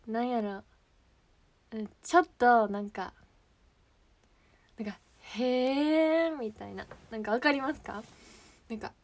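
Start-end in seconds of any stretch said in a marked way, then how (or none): 5.4-6.4 long, drawn-out sceptical hum of interest; acted, suspicious "oh really"; doubtful. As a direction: stretch it out as if not buying it. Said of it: "疑うような感じで言うみたいな".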